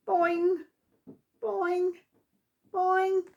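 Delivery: high springy boing sounds; playful bouncing effect; bouncy boings. A narrator's reading.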